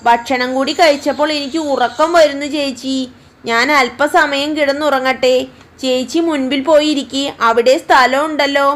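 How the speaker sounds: put-on a lazy kid sister angling to nap; young sister.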